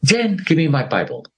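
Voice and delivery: high urgent call for the Bible; a retold scream, pitched high. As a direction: yell across the house for your wife. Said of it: "I screamed".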